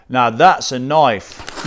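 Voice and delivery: slow, drawn-out hammed-up Australian accent; mock Australian accent. Finishing the movie quote for viewers, in a mock Australian accent. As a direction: deliver the Aussie punchline, slow and proud. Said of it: "Not the best accent there".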